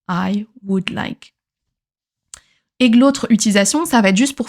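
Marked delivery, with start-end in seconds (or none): 0.1-1.3 slow, deliberate full form. Shown as a demonstration. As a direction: lay out each word slowly. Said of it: "la forme pleine".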